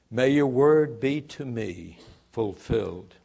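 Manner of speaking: measured, steady Bible reading; unhurried pulpit reading; scripture reading. Acted. Reads scripture aloud before the sermon.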